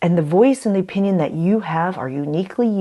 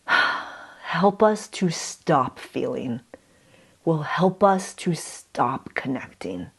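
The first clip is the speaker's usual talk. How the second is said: sincere and slow; 5 dB quieter, much slower than usual. Real, not acted. Slow reflective message.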